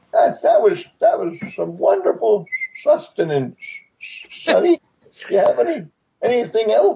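put-on high voice of an old toothless tiger. Voicing a sleepy old tiger scolding an adventurer: old toothless tiger voice. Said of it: "an old, toothless tiger, as you could probably hear from his voice".

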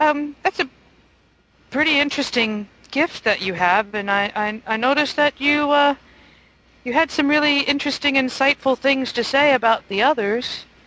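innocent-sounding character voice. Ravenna speaks to Johnny as they head up to the next deck, very innocent tone. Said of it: "in a very innocent tone of voice".

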